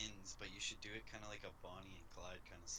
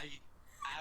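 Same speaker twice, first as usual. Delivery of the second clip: mock crying; 11 semitones higher than usual.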